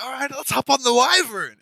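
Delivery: high, loud, carefree cheer; mock gung-ho. Player mocks own rash departure, gung-ho. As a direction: belt it out with mock eagerness.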